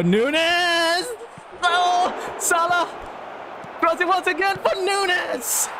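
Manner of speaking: very high-pitched cheering commentary; excited calling out. Real, not acted. Gamer calls the crosses for a striker, excited. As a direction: shriek the players' names as the chance builds.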